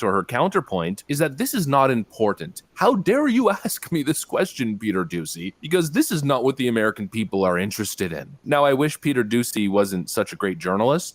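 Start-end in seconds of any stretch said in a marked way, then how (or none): 2.7-8.4 mock moral outrage. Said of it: "She tried to feign the moral outrage".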